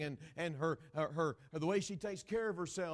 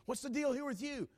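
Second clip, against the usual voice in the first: higher, louder scold; scolding dad; 10 semitones higher, 5 dB louder than usual. Retold or imitated. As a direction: bark at the kid.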